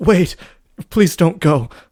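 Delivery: put-on loud, trembling voice, shaking like a scared child's. Begging her not to leave, voice shaking like a scared child's. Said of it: "Your voice is shaking like a scared child's".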